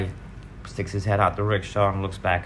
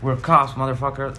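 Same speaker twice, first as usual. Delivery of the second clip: a retold robber's shout, higher and louder; mock yell; 5 semitones higher, 4 dB louder than usual. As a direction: bark it like a mugger claiming to be police. Mugger yells threat during robbery.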